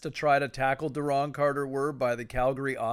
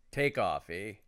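put-on Canadian accent; 5 semitones lower, 3 dB quieter than usual. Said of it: "the Canadian version of".

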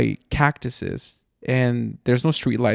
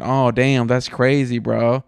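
mock phone scroller; slower than usual. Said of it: "looking at your phone and going".

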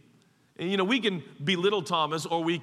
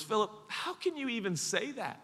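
mildly exasperated teacher; a little exasperated; 3 semitones higher than usual. Acted. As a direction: press each point in pained disbelief. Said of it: "now getting a little exasperated".

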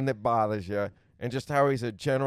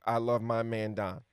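slow Southern drawl, easygoing; 2 semitones lower than usual. Pretend. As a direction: lay on the Southern drawl slowly. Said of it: "now you got me talking with a Southern drawl".

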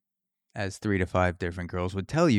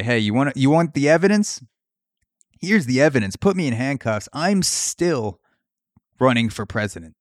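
mildly hammed-up defiance, raised pitch; defiant declaration; 2 semitones higher, 3 dB louder than usual. Trump challenges his accusers, mock defiant. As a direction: declare it like an unbowed candidate.

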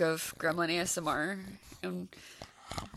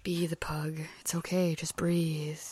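whisper; 5 semitones lower, 6 dB quieter, slower than usual. Pretend. Whispered part of mock voiceover.

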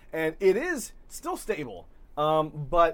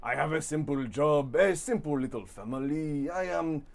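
lightly voiced, grandiose storybook fish; pompous fish character. GM voices Mustache Fish monologue.

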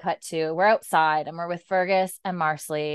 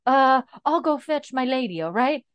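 higher-pitched flustered husband; mock fluster; 8 semitones higher, 4 dB louder than usual. Husband offers to go fetch milady, mock fluster. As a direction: imitate a husband eager to get help.

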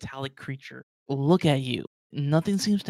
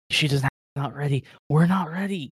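panicked; 4 dB louder, faster than usual. Acted. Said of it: "freaking out now".

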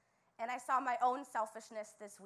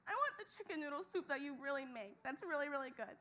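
whiny request; 2 semitones higher, 4 dB quieter than usual. Retold or imitated. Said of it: "I'm like".

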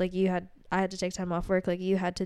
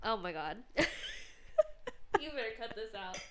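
tearful; 2 semitones higher, 10 dB quieter than usual. Real, not acted. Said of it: "I'm gonna cry".

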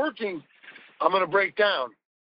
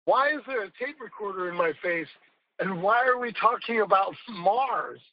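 starts much higher in baffled disbelief, then settles back down; mock amazement that fades toward normal; retold baffled how did we get here, high at first; bewildered disbelief; 5 semitones higher than usual. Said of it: "I looked at you and I go".

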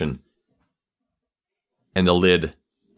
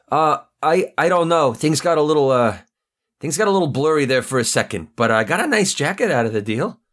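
higher, stammering goon making excuses; nervous goon; 6 semitones higher than usual. Acted. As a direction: nervously talk your way out of it. Goon answers Petrov.

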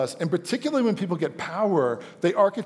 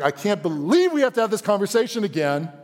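exhausted exasperation; 5 semitones higher than usual. Acted. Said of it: "he is exhausted with you".

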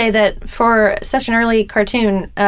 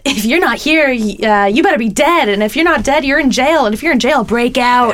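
monster truck ad; 3 semitones higher than usual. Retold or imitated. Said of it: "the ads for Truckosaurus".

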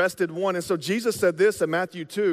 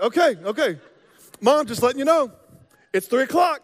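put-on eager nine-year-old; 6 semitones higher, 5 dB louder than usual. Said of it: "you're like".

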